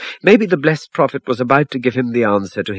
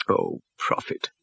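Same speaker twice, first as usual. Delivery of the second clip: whispered, slow, barely voiced; man begging the prophet, whispered cry; distressed whisper; 8 dB quieter, slower than usual. A narrator's reading. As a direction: breathe it out in despair. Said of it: "he cried".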